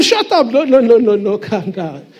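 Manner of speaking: exasperated parent yelling shut up; angry parent. Retold or imitated. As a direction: bark at the kid, then settle to calm down. Harsh parent silencing child.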